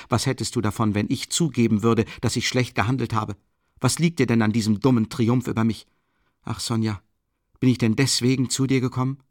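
desperate plea to Sonja; almost desperate. Acted. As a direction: push it out in near despair. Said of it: "nahezu verzweifelt hervor".

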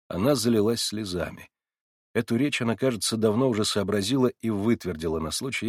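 usual speaking voice

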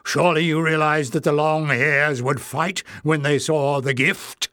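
testy scolding question; irritable goblin. Acted. Goblin elder reproaching Clef, irritably. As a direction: scold him for carelessness. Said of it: "demanded irritably".

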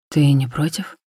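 low, soft, gentle question; velvety soft. A narrator's reading. Theo seeking the woman's consent, in a low velvety voice. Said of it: "Его голос был мягким, как бархат".

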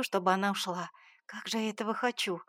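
ordinary delivery, nothing marked

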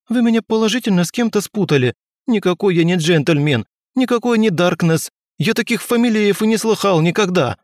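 high, desperate denial; pleading protest. A narrator's reading. Arrested Petrov denies everything to his captors, high and pleading. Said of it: "взмолился он".

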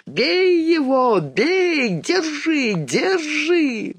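high furious yelling; angry mob shout. A narrator's reading. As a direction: shout to beat him. Angry mob chasing a thief.

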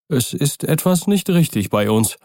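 put-on a worried old butler pleading; old servant. Old servant Poole speaks.

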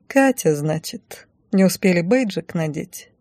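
slow, mocking question; ironic. Heroine teases the embarrassed shop assistant, dry ironic question. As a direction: needle her with dry irony. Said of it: "иронично спросила я".

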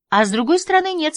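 mocking echo. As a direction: echo his words back high and playful. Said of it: "согласилась она". (передразнивая, высоким голосом)

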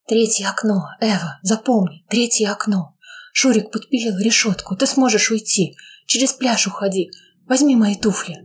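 breathy hurried secret instructions; urgent whisper. Acted. Dying mother whispering the escape route to her daughter.

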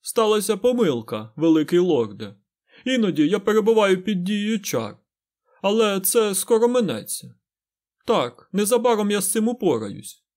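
butter up the lord like an equal; oily and ingratiating. A narrator's reading. Fain flatters the great lord, oily and ingratiating. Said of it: "набув елейності та вкрадливості".

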